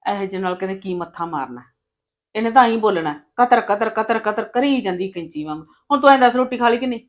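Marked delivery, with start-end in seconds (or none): 5.9-7.0 fast, higher, louder fuss; eager quick question. Acted. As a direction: rush to ask, all concern. Sister-in-law fusses over brother-in-law.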